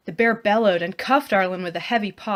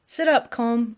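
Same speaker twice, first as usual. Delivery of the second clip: level voice; 4 semitones higher, 3 dB louder than usual. Acted. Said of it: "in the same level voice".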